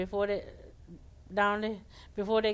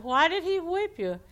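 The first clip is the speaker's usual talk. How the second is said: squirrel voice; 9 semitones higher, 6 dB louder than usual. Acted. Squirrel asks alligator, high.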